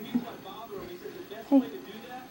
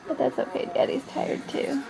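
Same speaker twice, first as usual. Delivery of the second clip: whispered aside; 5 dB quieter than usual. Real, not acted. Whispering aside about sleeping dad.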